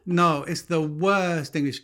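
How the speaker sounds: high, pained protest with a laugh in it; exasperated disbelief. Real, not acted. Husband scorning a film star's English accent, laughing dismay. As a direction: plead as if it hurts to recall. Ranting about a terrible accent.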